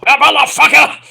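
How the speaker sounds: loud, high exploding curse; cursing like Jay Briscoe. Pretend. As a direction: let the curse rip. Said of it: "cursing like Jay Briscoe".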